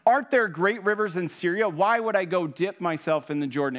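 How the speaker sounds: a commander scoffing at the prophet's order, indignant; indignant outburst. Retold or imitated. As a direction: fling the question back in outrage. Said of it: "he fumed with rage".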